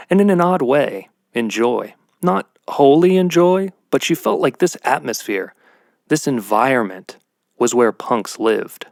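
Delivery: measured storyteller reading; story narration. Acted. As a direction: read it like a short story. Reads his short story aloud.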